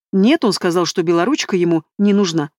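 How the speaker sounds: ordinary delivery, nothing marked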